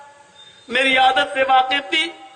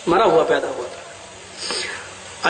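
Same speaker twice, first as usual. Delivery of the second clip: slow, softer, low "مرا ہوا پیدا ہوا تھا"; grieving repetition; 12 semitones lower, 4 dB quieter, slower than usual. Acted. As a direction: let "مرا" fall heavily and slowly. Preacher repeats dead-born line, slowed.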